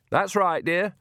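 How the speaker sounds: put-on high, sweet old woman's coo; a lure pretending to be kindly; fake Nanny voice. A narrator's reading. Fake Nanny answers Magrat.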